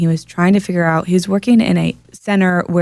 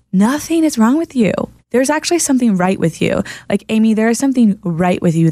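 earnest reassurance; 5 semitones higher than usual. Retold or imitated. Reassuring a client who feels broken.

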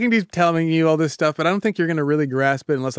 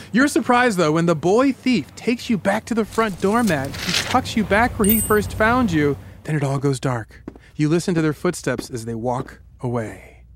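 story narration. Acted. Host ends the imagined burglary, story narration settling down. Tells a second-person scene.

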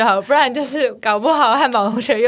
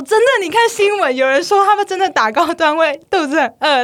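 put-on insistent boyfriend; 6 semitones higher, 3 dB louder than usual. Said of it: "后来他就说".

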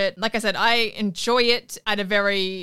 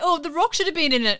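higher, louder mock whine; mocking whiny fan; 7 semitones higher, 4 dB louder, faster than usual.

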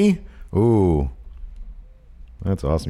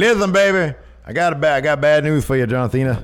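Dusty Rhodes impression; 4 semitones higher than usual. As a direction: lean in like an old wrestling promo. Doing Dusty Rhodes bit to Cena.

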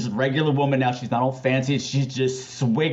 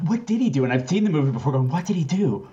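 puzzled; 3 semitones higher than usual. Retold or imitated. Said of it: "I'm going".

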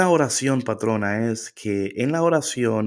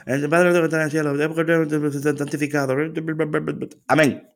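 rushed prayer; 4 semitones higher than usual. Retold or imitated. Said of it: "vienen llegando los latinos".

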